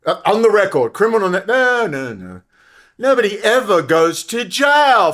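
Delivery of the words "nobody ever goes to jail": loud angry declaration; indignant shout. Real, not acted. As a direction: slam the point home.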